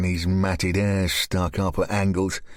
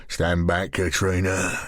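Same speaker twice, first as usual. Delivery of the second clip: lower, calm and controlled; lower, calm command; calmly; 4 semitones lower than usual. Acted. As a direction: keep her still. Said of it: "Graham said calmly".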